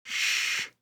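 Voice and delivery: whispered shh; shushing. A narrator's reading. Red shushes the visitor, whispered. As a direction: hush him urgently.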